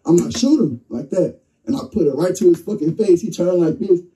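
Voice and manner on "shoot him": high, sharp urgent command; retold urgent order. Telling his girl to fire at the robber, high urgent command. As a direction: push her to fire, quick and tense.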